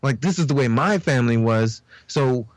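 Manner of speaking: high, rambling talk; stoned. Real, not acted. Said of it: "I'm high as fuck".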